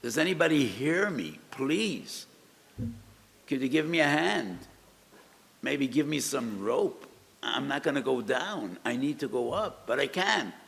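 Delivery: acted plea shouted up to someone above; yelling for help. Man stuck atop the ladder calls for help, yelling. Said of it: "So he starts yelling".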